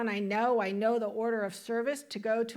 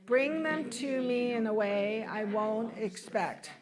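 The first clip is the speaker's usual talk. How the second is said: measured, deliberate affirmation in phrases; leading group recitation. Shown as a demonstration. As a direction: lead the congregation through it phrase by phrase. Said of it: "Why don't you say this with me".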